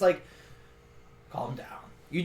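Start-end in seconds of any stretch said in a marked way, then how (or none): 1.3-1.7 calming orc. Acted. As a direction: hush the pawn quietly. Orc hushes the yelling pawn.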